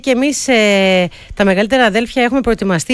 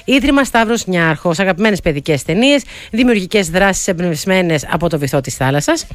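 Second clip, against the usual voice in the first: radio sponsor read, steadily paced. Acted. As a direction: read out the sponsor's invitation to listeners. Reads a sponsor message.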